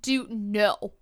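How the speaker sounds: firm command as if to a dog. Pretend. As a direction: tell a dog no, in short separate commands. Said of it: "I used my dog voice".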